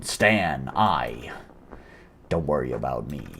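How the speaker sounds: grieving father. Acted. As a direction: speak quietly through grief. Grieving father Stan speaks.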